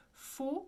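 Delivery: Fau- with a tight closed o; isolated French syllable Fau-. Shown as a demonstration. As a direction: say Fau- softly as a rounded French "foh". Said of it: "closed O".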